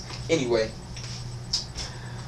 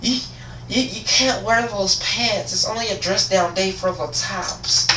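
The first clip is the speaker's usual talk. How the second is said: flustered administrator; 7 semitones higher than usual. Acted. Administrator repeating pants rule to student, high flustered imitation. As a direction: stumble through it in a high put-on voice.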